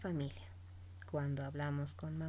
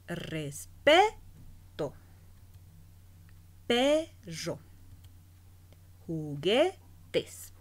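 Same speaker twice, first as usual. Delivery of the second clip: each word loud with its stressed syllable raised, Respeto said very slowly; prosodic stress demo; 6 dB louder, much slower than usual. Shown as a demonstration. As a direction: belt out the stressed syllable of Respeto, Perro, Juguetes. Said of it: "elevación de voz". (acento prosódico marcado en voz alta)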